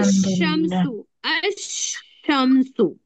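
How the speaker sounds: slow "अश-शम्सु" with the L dropped, the sh doubled; lam silent. Shown as a demonstration. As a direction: stretch out "अश-शम्सु", no L, held sh. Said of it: "लाम को नहीं पढ़ते हैं".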